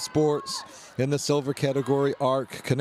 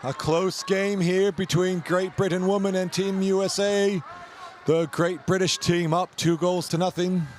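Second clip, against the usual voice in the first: raised, lively match commentary; sports commentator calling the game; live play-by-play; 4 semitones higher than usual. Acted. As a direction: call the action as it happens. Live canoe polo commentary.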